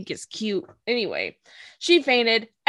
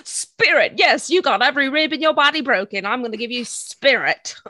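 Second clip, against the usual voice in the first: lightly mocking impression of a pushy hype man; mocking Speedwagon.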